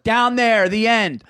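retold curt order. Dad's curt direction, retold.

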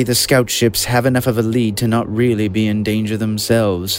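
a cool, measured Thrawn voice. Acted. Narrator restarts the Admiral's line in his Thrawn voice. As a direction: redo the line in character, composed. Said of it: "not my Thrawn voice. Let me do that again".

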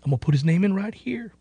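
playful sing-song muttering; a goofy voice while adding a name; silly recruiting voice. Retold or imitated. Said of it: "And I say it in that voice".

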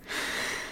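long breathy sigh to catch breath; deep sigh. Real, not acted. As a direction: exhale slowly, catching your breath. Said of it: "take a moment".

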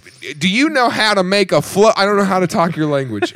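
flustered mock Australian accent; attempted Australian accent. British ally struggling to talk American language, botched Australian accent. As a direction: stumble through it in an Australian accent. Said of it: "I'm pretty good Australian accent".

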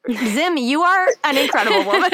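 laughing. Real, not acted. Moved host praising guest.

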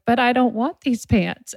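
put-on protesting child. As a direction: play a toddler refusing, pitch lifted. Acted child in pants tantrum.

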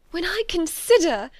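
high, loud, agitated outburst; heightened distress. A narrator's reading. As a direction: break out in anguished self-reproach. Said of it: "in a yet more agitated voice".

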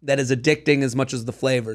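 talking through a crunchy mouthful; chewing while talking. Real, not acted. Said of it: "you can hear me chomping".

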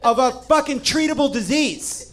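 high, loud, slow laughing outrage. Real, not acted. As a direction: hammer it home while laughing.

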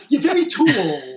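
put-on laughing Brooklyn Jewish mom accent. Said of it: "in his old Brooklyn Jewish mom accent".

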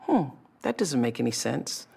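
quiet, doubtful "Hmm"; soft puzzled murmur. Retold or imitated. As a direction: mumble a small doubt. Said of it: "a whisper usually in your life feels like".

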